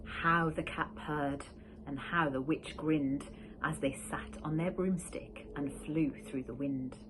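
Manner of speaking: usual speaking voice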